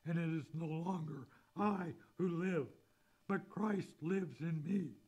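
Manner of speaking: fervent scripture recital; scripture reading. Acted. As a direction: proclaim the verse to the congregation. Reads Galatians verse aloud.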